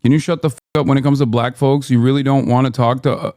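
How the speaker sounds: angry tirade. Real, not acted. Streamer berates black commenters, loud and fast. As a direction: tear into the chat.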